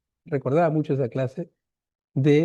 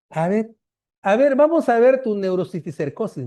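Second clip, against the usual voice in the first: mocking; 5 semitones higher, 4 dB louder than usual. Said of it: "Así todo burlón".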